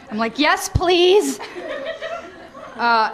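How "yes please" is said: higher, laughing and eager; eager yes. Retold or imitated. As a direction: jump at the offer with a giggle.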